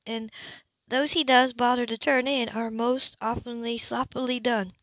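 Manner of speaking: businesslike caseworker report; lightly voiced Anna. Female character voice, higher.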